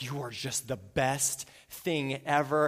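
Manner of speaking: slow, gushing flatterer; gushing praise. Retold or imitated. Pastor voicing a colleague who gushes over him, slow and gushing. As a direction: lay the praise on thick and slow. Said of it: "this person's like".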